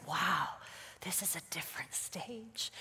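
low, hushed wonder; very soft, breath-only murmur; awed whisper. Retold or imitated. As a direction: whisper it as a private realization. Her awed reaction in quiet house.

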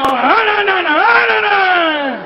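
rising, whimpering no's; pleading. Acted. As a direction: beg her to stop, half crying. Hombre suplicando que pare. (hombre suplicando, medio llorando)

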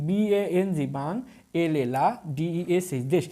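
teacher breaking বাংলাদেশ into বাং, লা, দেশ; letters first, then each syllable বাং, লা, দেশ; syllable-by-syllable demo. Shown as a demonstration. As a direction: spell out, then sound বাং, লা, দেশ one by one. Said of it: "অক্ষর আছে কয়টি".

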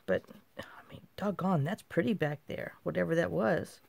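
hushed, breathy aside to herself; whispered aside. Real, not acted. Crafter admiring mail art to herself, whispering. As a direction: say it under your breath as if to yourself.

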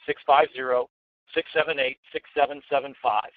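each digit said slowly and clearly. Shown as a demonstration. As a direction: spell out every number deliberately. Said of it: "Let me say it again slowly".

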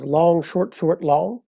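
long, short, short, long spelled out slowly; choriambic rhythm. Shown as a demonstration. Teacher spelling out the metre to a student, measured and deliberate. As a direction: lay out the foot beat by beat. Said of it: "the dominant foot is the choriambus".

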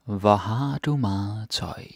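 slow and deliberate, each word clear; slowly. Shown as a demonstration. Teacher slowing down the Danish sentence for learners, slow and deliberate. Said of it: "let's do it slowly and translate".

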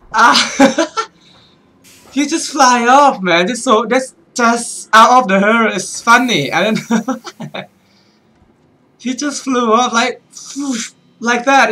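high-pitched, tickled by the shock; real giggles breaking up the talk; can't stop laughing at a scare; amused, laughing. Real, not acted. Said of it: "that made me laugh. I can't stop it".

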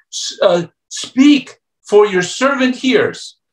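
put-on high, stammering little boy who forgets Lord; nervous stammer. Nervous little Samuel answering the Lord's voice in a high stammer. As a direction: stumble over the first word, then rush it. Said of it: "Samuel's so nervous, he says".

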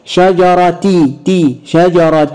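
شجرة sounded out as shajaratin; kasra tanween. Shown as a demonstration. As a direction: dwell on "ti", then end شجرة in "tin". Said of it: "تنوين بالكسر".

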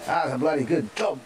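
a light put-on Australian accent; mock Australian praise. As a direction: say it like a friendly Aussie, lightly. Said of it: "That's Australian".

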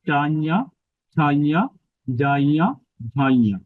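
চাইয়া to ঝাইয়া with tongue on the palate; each word drawn out, rising, last one falling; palatal drill. Shown as a demonstration. Teacher showing where the tongue touches, palatal drill. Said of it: "জিওবাটা নির্দিষ্ট জায়গায় কাজ করতে হবে".

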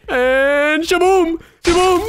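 high, loud, drawn-out shaboom; triumphant gamer yell; excited exclamation. Real, not acted. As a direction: shout it like a big reveal. Springing a trick in the game.

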